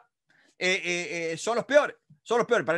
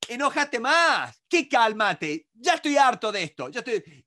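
imagined angry reply; 3 semitones higher, 4 dB louder than usual. Retold or imitated. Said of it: "¿qué escuchás vos?".

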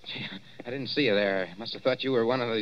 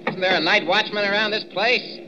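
calling out; 8 semitones higher, slower than usual. Acted. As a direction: call through the glass doors, raised and high. Calling out at locked doors.

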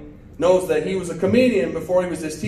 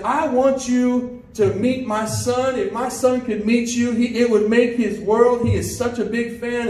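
excited mother; 4 semitones higher than usual. Retold or imitated. Excited mother asks star to meet son.

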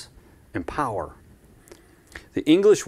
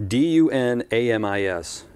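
spelling it out. Shown as a demonstration. Pastor spelling the Greek word for the congregation, letter by letter. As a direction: spell D U N A M I S letter by letter with a small laugh. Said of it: "a Greek word that I can say".

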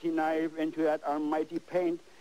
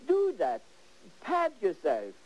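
self-praise. Retold or imitated. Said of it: "always say".

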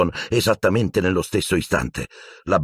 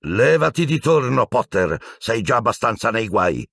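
sharp, raised-pitch warning; hissed; 5 semitones higher than usual. Acted. Teacher ordering Potter aside, hissed warning. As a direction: order him away with contained anger. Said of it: "sibilò Piton".

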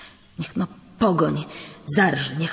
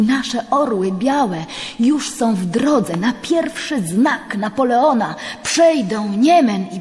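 higher and louder, swelling with pride; rousing proclamation; 4 semitones higher, 4 dB louder than usual. Acted. Priest proclaiming the Polish army's march, higher and louder. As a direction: lift them with the news of the army.

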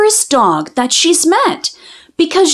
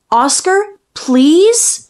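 pleading; 3 semitones higher, much slower than usual. Acted. Child begs dog to talk.

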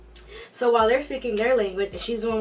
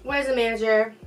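insistent, louder repeated demand; 3 dB louder than usual. Retold or imitated. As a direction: demand the manager, pushy. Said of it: "she cuts me off".

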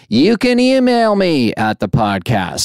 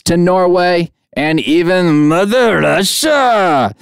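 put-on a hammy Russian accent, slowed on Mother Russia; Russian accent attempt; 5 semitones higher, slower than usual. Host greeting Russian listeners in a mock Russian accent. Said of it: "I can't do those accents".

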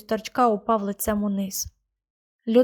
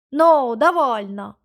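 guard's shout; 2 semitones higher, 5 dB louder, slower than usual. A narrator's reading. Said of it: "крикнув раптом передній стражник".

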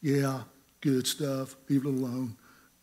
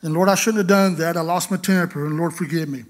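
mock hasty apology; 3 semitones higher, 8 dB louder than usual. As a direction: apologise again, still heated. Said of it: "Five minutes later".

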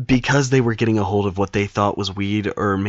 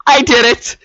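much higher, much louder, wailing through tears; crying confession; 10 dB louder than usual. Retold or imitated. A twelve-year-old cracks under the principal's threat and wails it out in tears. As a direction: break down and howl out the confession. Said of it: "I burst into tears".

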